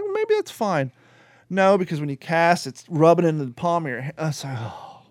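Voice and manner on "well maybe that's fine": mock high musing. Talking himself into the new rod, mock high voice. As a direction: play along like it might be fine. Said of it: "So I'm like".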